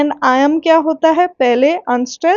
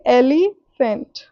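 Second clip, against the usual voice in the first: एलिफेंट slowly, stressed on the opening ए; dactyl stress; 2 semitones lower, much slower than usual. Shown as a demonstration. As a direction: demonstrate एलिफेंट, first syllable strong, the rest unstressed. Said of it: "जिसमें starting में stressed होते हैं". (एलिफेंट के पहले अक्षर पर ज़ोर)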